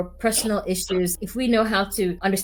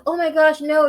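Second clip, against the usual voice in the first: apologetic dismay; 8 semitones higher, 4 dB louder than usual. Retold or imitated. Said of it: "And she's like".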